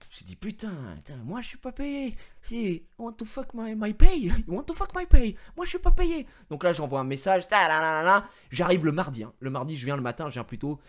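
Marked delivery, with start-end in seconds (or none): 0.4-6.3 mock rant. Retold rant about not being paid. (s'énerver en montant, de sourd à crié)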